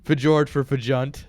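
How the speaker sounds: "Fjord for Fajunt" slow and mangled; deliberately wrong Swedish. Shown as a demonstration. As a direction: botch "Fajunt" on purpose. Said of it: "your Swedish is the worst thing I've ever heard".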